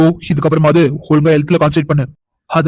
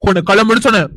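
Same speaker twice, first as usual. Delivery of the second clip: restrained angry dismissal; 2 semitones higher than usual. Acted. Man ordering the woman to leave, angry. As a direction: order them away with a touch of anger. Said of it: "எதுக்கு இவ்ளோ கோவப்படுறீங்க".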